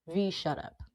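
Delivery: mildly said shut up, quietly; soft, calm telling-off. Retold or imitated. Managers quietly telling V to hush. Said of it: "They don't say it like that".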